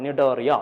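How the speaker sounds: നിഡേറിയ with its first letter C silent. Shown as a demonstration. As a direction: repeat നിഡേറിയ as a model, no C sound. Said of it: "pronounce ചെയ്യുന്നത് നിഡേറിയ എന്നാണ്".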